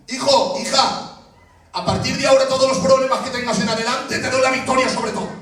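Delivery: high, proclaiming voice of God; acted divine promise. God promises victory in a dream, acted proclamation.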